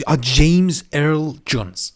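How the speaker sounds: sudden remembering. Real, not acted. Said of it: "آفرین".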